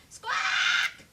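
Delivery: high, loud bird squawks; shrill bird screech. A narrator's reading. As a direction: screech like greedy birds. Birds follow squawking.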